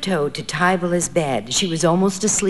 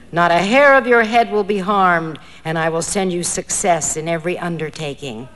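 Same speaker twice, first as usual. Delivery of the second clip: hollow voice. Acted. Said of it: "replied in a hollow voice".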